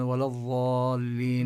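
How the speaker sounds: ولا الضالين with the ض said like a ظ; slow demo of ولا الضالين with ض turned into ظ; showing the common mistake in ولا الضالين, ض voiced like ظ; wrong dad sounded as zaa. Shown as a demonstration. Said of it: "فيلفظون الضاد كأنها ظاء".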